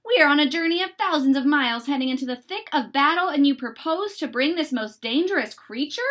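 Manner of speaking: loud, fast, indignant officer; a blustering colonel protesting; stern colonel. Acted. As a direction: bark out the objection like a colonel. Colonel objecting to the bear.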